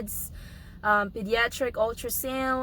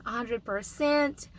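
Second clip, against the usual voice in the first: hoarse voice. Real, not acted. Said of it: "As you can hear my voice".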